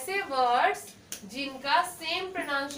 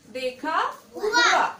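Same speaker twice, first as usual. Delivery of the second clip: slow emphasis; 4 dB louder, slower than usual. Shown as a demonstration. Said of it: "क्या होगा?".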